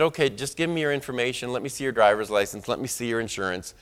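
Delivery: the anger gone, just business; quietly deflated request; calmed down. Retold or imitated. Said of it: "she calmed down".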